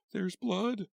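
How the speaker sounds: high, loud horrified cry; cried out. A narrator's reading. Witch crying out at the blood, high and loud. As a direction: scream it at the sight of blood. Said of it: "the witch cried".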